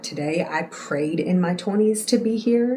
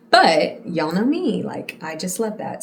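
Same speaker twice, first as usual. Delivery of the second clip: sarcastic. Real, not acted. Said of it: "sarcasm if you couldn't tell".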